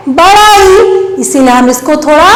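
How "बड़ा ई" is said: बड़ा ई with the ई held long and pushed; ई पर ज़ोर. Shown as a demonstration. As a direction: push hard into a long ई. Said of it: "दम लगा के बोलेंगे". (ई को दम लगाकर, खींचकर)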